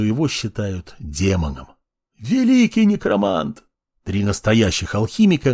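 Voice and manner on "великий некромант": high, pleading worship; fearful praying. Acted. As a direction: cry out in terror. Slaves grovel in terror.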